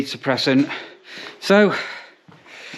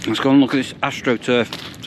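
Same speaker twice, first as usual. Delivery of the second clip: talking through a mouthful of sausage; mouth full. Real, not acted. Vlogger heading out to show the AstroTurf, mouth full. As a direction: chew and talk at once. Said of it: "Sorry, talking with my mouth full".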